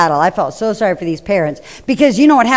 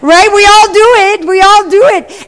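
higher, louder "We all do it"; emphatic; 10 semitones higher, 6 dB louder than usual. Real, not acted. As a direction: drive the point home twice. Preacher repeating with emphasis.

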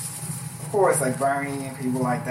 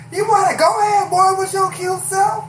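higher, louder flirty call from the crowd; flirty heckler; 5 dB louder than usual. Retold or imitated. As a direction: call out teasingly from the audience. Heckler flirts at poetry show.

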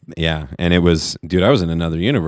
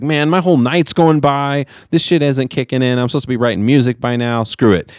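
frustrated complaint; 6 semitones higher than usual. Retold or imitated. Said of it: "I was like".

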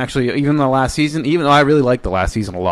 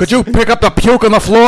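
high, louder mock-polite plea; mock request; 9 semitones higher, 4 dB louder than usual. Joking about paging the janitor, mock-polite request. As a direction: ask it with fake politeness.

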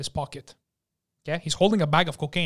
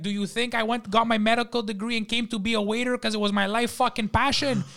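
higher-pitched sarcastic rant; exasperated waiter; 6 semitones higher than usual. Retold or imitated. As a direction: act out a fed-up waiter's tirade. Waiter berating the injured customer.

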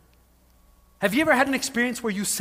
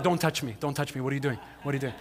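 startled wife; 7 semitones lower, 6 dB quieter, faster than usual. Retold or imitated. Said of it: "I could just see Elizabeth like".

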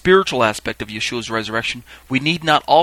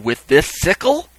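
slow, raised ceremonial question; calling out; 5 semitones higher, 4 dB louder than usual. Acted. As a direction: put it to the crowd, pitch up. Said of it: "He would ask the question again".

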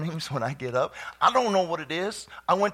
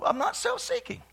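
laughing. Acted. Repeated line, laughing take.

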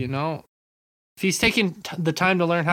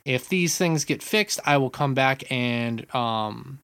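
lightly voiced polite reviewer, lower; measured reviewer voice; 7 semitones lower than usual. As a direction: read it out like a calm, wordy reviewer. Reasonable reviewer voiced, lower, quieter.

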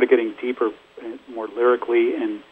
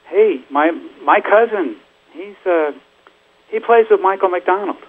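higher, lightly imitated cousin calling out; eager cousin; 8 semitones higher than usual. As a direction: pipe up to a star, lightly acted. Retold cousin boldly approaching a star.

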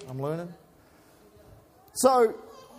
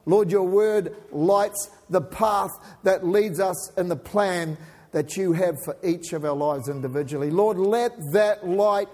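opening prayer. Acted.

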